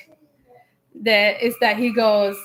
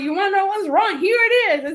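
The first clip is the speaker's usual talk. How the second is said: higher-pitched retold outburst; exploding; 6 semitones higher, 3 dB louder than usual. Wife confronts husband over an old letter, retold outburst. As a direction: re-enact blowing up at him, pitch raised. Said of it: "I kinda just exploded".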